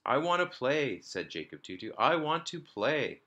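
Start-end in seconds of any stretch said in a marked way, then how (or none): 0.1-1.0 put-on insistent little boy. A narrator's reading. 2.0-3.2 put-on insistent little boy. A narrator's reading.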